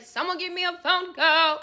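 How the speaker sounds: lightly shouted plea from the cell; calling out. Retold or imitated. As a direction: call for help through the door. Calling through the cell door.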